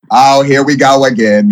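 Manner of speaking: lightly voiced weary sigh, here we go; a hint of a tired housemate who's seen it all; Boston impression. Guest imitating housemate Boston rolling his eyes at a tantrum, mildly weary. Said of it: "that's my Boston".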